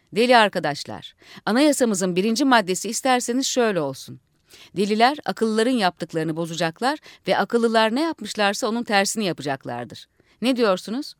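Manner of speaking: rousing orator to the assembly; speechmaking leader. Acted. Leader addressing fellow madmen, rousing speech. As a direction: lead the crowd like a rally.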